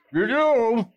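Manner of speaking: a hammed-up "you do?" to the kids; mock surprise. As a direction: feign being taken aback. Saul character teasing audience.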